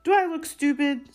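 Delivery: high-pitched indignant snarl. A narrator's reading. Uncle rejecting his nephew's plea about the owl, snarling. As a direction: snap it back as an angry uncle. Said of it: "snarled Uncle Vernon".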